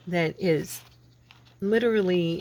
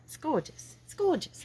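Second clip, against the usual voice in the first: high, hushed gushing over the paper; breathless high admiration; awed gushing; 10 semitones higher, 5 dB quieter than usual. Acted. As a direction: swoon over how gorgeous it is, pitched way up. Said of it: "I say".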